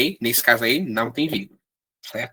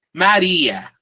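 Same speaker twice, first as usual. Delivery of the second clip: raised, louder demo of a shouted name; mild demonstration shout, higher pitched; mock calling out; 4 semitones higher, 6 dB louder than usual. Shown as a demonstration. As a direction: call out the name as an example. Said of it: "gritou João".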